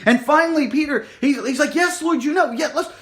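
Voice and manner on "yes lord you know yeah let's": distressed. Acted. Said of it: "And he is distressed".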